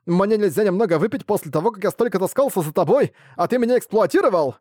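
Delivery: put-on high, shouting drunk tirade; drunken rant. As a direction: yell your grievances, tipsy and fed up. Drunk merchant rants at Ark. (пьяная тирада, высоким криком)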